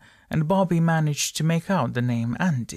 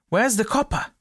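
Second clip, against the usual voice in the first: high calling cry across the street; cried out; 9 semitones higher, 3 dB louder than usual. A narrator's reading. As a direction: call out for the copper, pitched high. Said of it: "someone cried".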